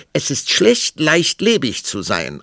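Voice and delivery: high, loud contradiction; retorting queen. A narrator's reading. Queen answering the king's claim, high loud retort. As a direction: hit back in a high-pitched queen voice. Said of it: "antwortete die Königin".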